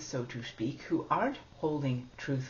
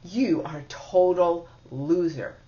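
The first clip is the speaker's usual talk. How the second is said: inner critic voice; 4 dB louder than usual. Shown as a demonstration. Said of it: "So let me role play that".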